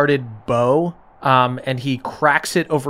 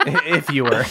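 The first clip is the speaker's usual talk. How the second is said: fake apology. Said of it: "a dude apology".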